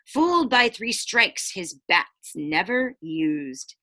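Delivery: rhyming storybook read-aloud; picture-book narration; reading to children. A narrator's reading. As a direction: lilt the rhyme for the kids. Reads rhyming book to class.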